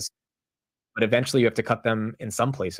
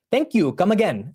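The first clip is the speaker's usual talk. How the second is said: slow, higher-pitched, clumsy Indian accent; badly attempted Indian accent; 5 semitones higher than usual. Shown as a demonstration. Streamer quoting Apu for viewers, hammy bad Indian accent. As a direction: put on a poor Indian accent, drawn out. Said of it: "that's not an Indian accent".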